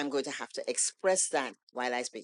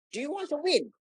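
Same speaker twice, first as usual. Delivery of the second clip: challenging question; 12 semitones higher than usual. Retold or imitated. Mentor challenging her.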